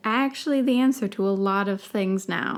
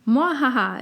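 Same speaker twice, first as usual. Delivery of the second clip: creature cackle; 4 semitones higher, 4 dB louder than usual. Acted. Puffskin insisting.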